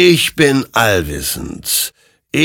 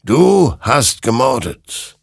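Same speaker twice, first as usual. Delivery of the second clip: slow, loud, raised accusation; accusing rider; 6 semitones higher, 6 dB louder, slower than usual. Acted. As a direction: pronounce the verdict word by word. Rider accuses Hector of murder.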